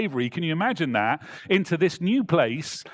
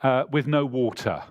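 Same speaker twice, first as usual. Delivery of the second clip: mock complaint; 3 dB louder than usual. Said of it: "So they're saying".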